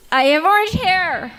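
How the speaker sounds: Sunset Shimmer impression. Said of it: "here's my Sunset Shimmer impression".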